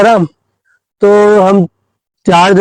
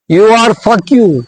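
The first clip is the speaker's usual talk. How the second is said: very slow, each word dragged out, higher; exaggerated slow English; 4 semitones higher, much slower than usual. Boy proudly showing off his English to the principal, dragged out slowly. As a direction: spell out you are fuck you proudly, word by word.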